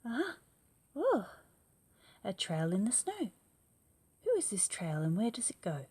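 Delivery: high loud gasp of discovery; gasp, then wonder aloud; startled child. Acted. Gruffalo's child finding a trail, high surprised gasp.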